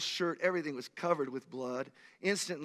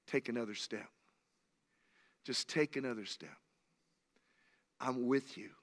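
low, softened voice, voiced rather than whispered; gentle whispered prompting; 4 semitones lower, 5 dB quieter than usual. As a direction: speak God's quiet, reassuring nudge. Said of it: "tell you and whisper to you".

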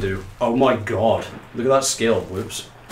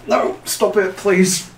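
panicked squeal; 10 semitones higher, 5 dB louder, much slower than usual. Real, not acted. Character flailing in water, panics.

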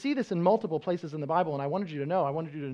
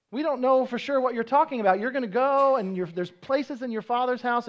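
mild puzzled pleading; 5 semitones higher, 4 dB louder than usual. Acted. Thomas questioning Jesus, retold.

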